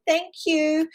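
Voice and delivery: lightly voiced, high little thank-you; grateful bear cub. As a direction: imitate a sweet small creature. Voicing grateful bears at door.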